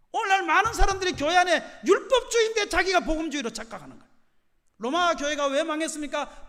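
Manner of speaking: loud, high-pitched sermon delivery; preaching at full force. Real, not acted. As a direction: thunder rhetorical questions and answers at the congregation.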